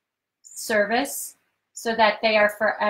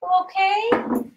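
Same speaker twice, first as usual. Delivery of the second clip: high, slow cooing pet voice; 4 semitones higher than usual. Real, not acted. Comforting the dog.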